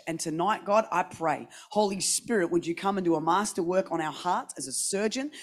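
a hushed opening prayer. Real, not acted. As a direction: pray quietly and earnestly over the church. Opening prayer before the sermon.

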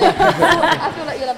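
laughing through the words; giggling as she speaks. Real, not acted. Laughing while passing to Lisa.

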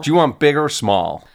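mock American salad server; attempted American accent. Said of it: "No, that's still".

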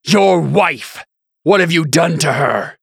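high, loud angry demand; furious shouting. Acted. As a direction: shout the accusation. Delin screams at the bishop.

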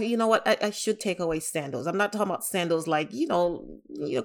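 ordinary talk, nothing marked

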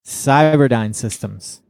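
slow, drawn-out name reveal; slow announcement. Real, not acted. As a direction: announce the pick slowly, stretching each word. Announces his list pick.

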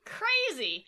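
high, loud mock astonishment; exaggerated fake surprise; mock amazement. Real, not acted.

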